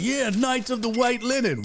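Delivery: lightly voiced racist website; mock KKK voice. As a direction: say it like a sinister recruiter. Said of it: "They're like".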